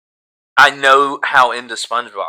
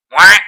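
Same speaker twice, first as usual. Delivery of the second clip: quacking like a duck; 9 semitones higher, 14 dB louder than usual. Shown as a demonstration. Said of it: "It's more like this".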